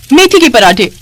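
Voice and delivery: balking at fenugreek parathas; incredulous echo. Acted. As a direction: repeat the dish in disbelief. Repeats the dish in disbelief.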